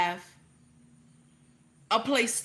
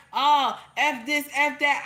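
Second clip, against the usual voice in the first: slow, louder mock grumble of the complainers; mocking complaint; 4 semitones higher, 5 dB louder, slower than usual. Mocking people who want the country to burn, louder. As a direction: imitate people griping dismissively. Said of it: "y'all always be like".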